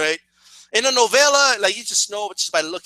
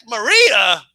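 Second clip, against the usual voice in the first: puzzled echo in usual pitch; baffled repeat; 4 dB louder than usual. Retold or imitated. Viewer questioning the sudden arrival, baffled. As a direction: repeat the name in disbelief, less dramatically.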